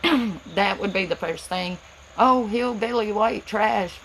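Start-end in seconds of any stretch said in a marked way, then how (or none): 2.2-4.0 mock insult. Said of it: "because I have an accent".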